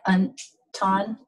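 "anton" with the N cut off abruptly before "ton"; "anton" as an', tiny break, ton; abrupt ejective N. Shown as a demonstration. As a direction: stop short after the N in "anton". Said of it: "So it's that abrupt".

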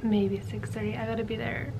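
tired late-night whisper. Real, not acted. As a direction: hush it out, unvoiced.

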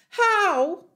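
high, loud rising question; urgent astonishment. A narrator's reading. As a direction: blurt it as an amazed piglet. Frantic piglet questions his rescuer.

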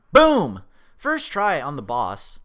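loud, high boom, then drawn-out boast; punchy victory call, stretched out after; triumphant shout. Real, not acted. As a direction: crow loudly over the victory. Beats the boss.

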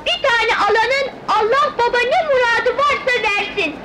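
sing-out peddler's patter; child street seller's begging pitch; street hawker's call. Acted. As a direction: call out wares with pleading blessings. Child hawking gum on the street.

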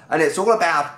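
lightly put-on Australian accent; a touch of mock Aussie twang. Describing the party boy Aussie to viewers, Australian accent. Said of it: "I'll stop the Australian accent now".

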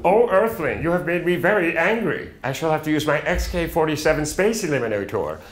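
a small space alien, pompous and peeved; Marvin the Martian. Shown as a demonstration. Radio host shows off his Marvin the Martian voice, high cartoon alien. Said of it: "Marvin Martian".

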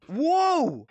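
high-pitched startled whoa. Real, not acted. Scared player startled in game, alarmed. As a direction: let out a sudden high cry of alarm.

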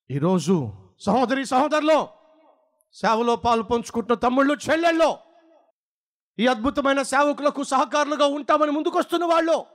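rising, shouted peaks, then low falls; fiery preaching. Acted. Preacher challenges the congregation in fiery preaching.

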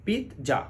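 pizza split as pit-ja; a clear stop on the t in pizza, then ja; pizza pronounced correctly. Shown as a demonstration. Teacher giving learners the right sound, pizza as pit-ja. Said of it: "সঠিক উচ্চারণ হলো".

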